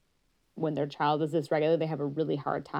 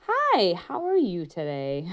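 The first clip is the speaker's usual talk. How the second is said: slow up-and-down sing-song greeting; sing-songy; 4 dB louder, slower than usual. Shown as a demonstration. Therapist showing a varied, sing-songy greeting. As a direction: let it swoop up and down, slowly. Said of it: "bring them up and down".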